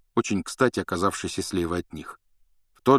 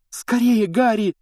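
high, loud hurrying call; urgent call; 14 semitones higher, 6 dB louder, slower than usual. Acted. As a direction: urge him to run. Dumbledore urges Harry. (громкий призыв поторопиться)

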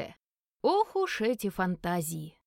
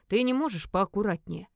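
ordinary delivery

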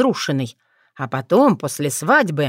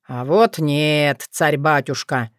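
sly refusal; 3 semitones lower, slower than usual. Acted. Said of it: "Кощей расплылся в хитрой улыбке".

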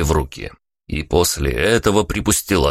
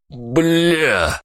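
winded curse; 9 semitones higher than usual. A narrator's reading. Hit in stomach.

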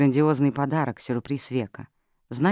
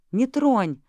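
high, loud cry; secretary screaming as the casket is opened; yelling; 10 semitones higher, 4 dB louder than usual. A narrator's reading. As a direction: shout at him to stop. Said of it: "закричала она".

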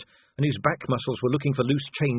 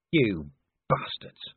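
growled; 3 semitones lower, much slower than usual. Acted. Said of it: "Vimes growled".

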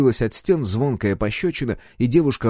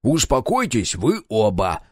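calming order; slower than usual. Acted. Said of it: "Встал между нами Квадр".

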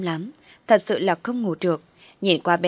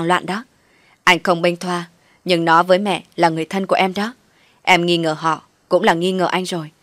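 stern rebuke; 4 dB louder than usual. Acted. Hoàng rebukes Thư angrily.

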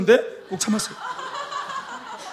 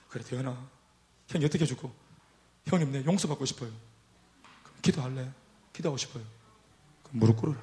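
much softer and lower, almost murmured; hushed late-night talk; 6 semitones lower, 11 dB quieter than usual. Retold or imitated. Preacher counseling a crying member beside sleeping parents, hushed. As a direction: speak low so the next room can't hear.

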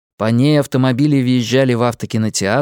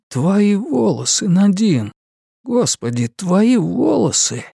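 high, stunned exclamation; shocked; 7 semitones higher, slower than usual. Acted. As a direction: gasp it out in shock. Shocked at her hair.

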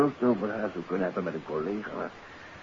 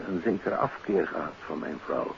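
ordinary talk

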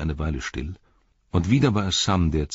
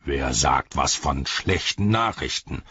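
bellowing orc soldier. Acted. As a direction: challenge him slowly as an angry orc. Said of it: "brüllte der Soldat".

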